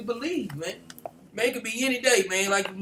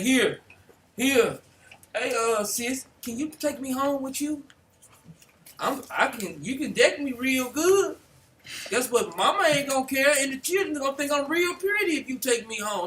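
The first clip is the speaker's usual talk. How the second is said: sweet, smooth-talking voice, pitched up; 5 semitones higher than usual. Acting out a Christmas tree asking to be taken home: smooth-talking tree voice. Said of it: "They not gonna have smooth words like Esau".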